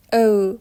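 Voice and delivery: "او" said as a long German ö; German o-umlaut. Shown as a demonstration. Teacher models o-umlaut for learners, "او" as long ö. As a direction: say "او" as ö, an e with rounded lips. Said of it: "چه فرقی با او داره".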